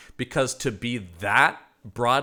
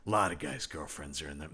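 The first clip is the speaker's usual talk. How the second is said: Chris Farley; 8 semitones lower, 11 dB quieter than usual. Retold or imitated. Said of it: "Chris Farley is the roadie, goes".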